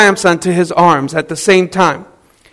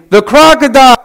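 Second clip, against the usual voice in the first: mock yell; 5 semitones higher, 4 dB louder than usual. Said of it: "she's yelling at him".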